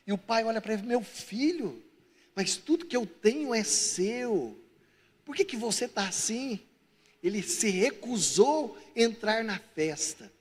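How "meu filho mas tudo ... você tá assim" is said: slow, lightly voiced fatherly appeal; patient father. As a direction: gently reason with your son. Father answers his resentful son.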